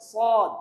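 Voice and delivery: সদ with a heavy, rounded 's'; careful saad. Shown as a demonstration. Teacher naming the letter neatly, articulated. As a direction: shape the s of সদ fully. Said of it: "এটা একটু গুছিয়ে".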